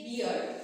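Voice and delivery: "beer" with a drawn ee-uh vowel; wrong pronunciation. Shown as a demonstration. Teacher quotes students' mistake, "beer" with ee-uh. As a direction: bear mispronounced as "beer". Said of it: "don't say beer".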